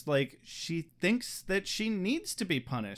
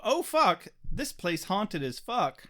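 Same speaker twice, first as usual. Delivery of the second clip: scared; 3 semitones higher, slower than usual. Retold or imitated. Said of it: "makes Doyle and Angel go".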